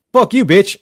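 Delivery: hammed-up rude dismissal; mock harsh snap. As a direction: spit it out like a cold stranger. Acted harsh reply to crying woman.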